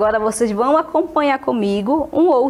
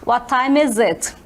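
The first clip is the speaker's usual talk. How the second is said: slow, careful question; slow model phrase; slower than usual. Shown as a demonstration. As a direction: repeat it slowly for students. (pergunta lenta de professora)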